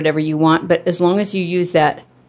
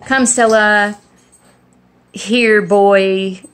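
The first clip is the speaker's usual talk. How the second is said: calling the dog; 3 semitones higher, slower than usual. Shown as a demonstration. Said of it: "you can say".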